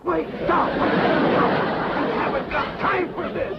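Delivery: high, panicked protest; panicked cry to stop; alarmed protest. Acted. Drysdale protests being hauled off.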